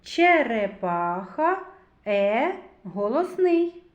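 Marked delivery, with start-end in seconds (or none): 0.0-1.6 Черепаха slowed, stretching the second е; drawn-out sound analysis. Shown as a demonstration. Teacher to class, slowly sounding out Черепаха. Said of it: "Робимо звуковий аналіз слова".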